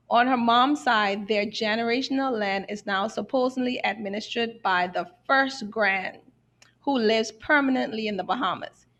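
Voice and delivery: measured reading, lingering on some phrases; careful slow reading. Real, not acted. Host reading out a land dispute question, carefully. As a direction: read a written question out deliberately. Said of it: "I'll try to read it slowly".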